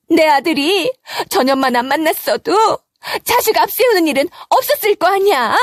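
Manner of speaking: 높은 목소리로 탓하며 한탄하는 시어머니; 손녀를 잃고 며느리 탓하며 높게 울부짖는. Acted. (장례식장에서 며느리를 탓하며 높은 목소리로 울부짖는 시어머니)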